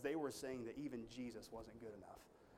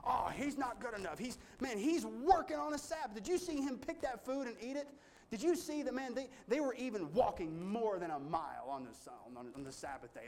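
high, loud, scandalised tattletale whine; mocking self-righteous Pharisee; 7 semitones higher, 4 dB louder than usual. Preacher mocks the Pharisees accusing Jesus, in a high scandalised whine. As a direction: squeal it like a shocked busybody telling on him. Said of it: "self-righteous guys going".

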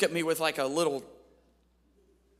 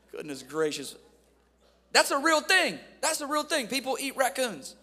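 usual speaking voice

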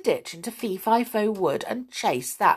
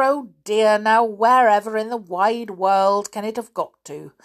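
milder flustered; 3 semitones higher, 4 dB louder than usual. Acted. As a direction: mutter the worry to herself. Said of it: "fussing about".

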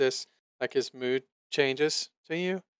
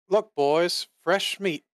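higher, louder menacing taunt; dwarf thug voice; 5 semitones higher, 4 dB louder, slower than usual. Acted. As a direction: sneer it like a gloating bandit. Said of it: "the dwarf speaks up and he says".

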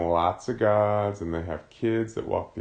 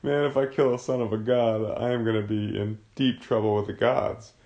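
Pilate panicking; 4 dB louder than usual. Retold or imitated. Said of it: "He's like".

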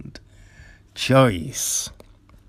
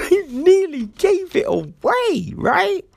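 laughing. Real, not acted. Laughing high repeat.

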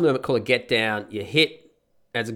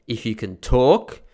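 retold firm instruction; 4 dB louder, slower than usual. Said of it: "and I say".

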